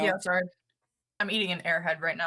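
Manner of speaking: talking while chewing candy; words round a chewy sweet; mouth full. Real, not acted. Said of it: "I can hear your little gums globbing around".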